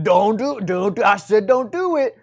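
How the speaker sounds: loud, insistent mock warning; hammed-up stern order; playful stern command. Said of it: "really threatening".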